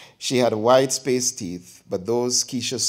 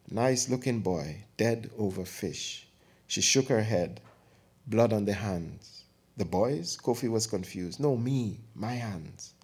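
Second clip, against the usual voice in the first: quiet grief; 4 dB quieter than usual. Acted. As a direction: mourn the boy quietly. Aunt grieving the dead boy.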